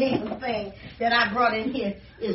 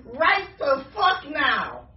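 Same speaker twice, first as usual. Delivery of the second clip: slow angry emphasis; much slower than usual. Real, not acted. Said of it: "I'm so motherfucking mad".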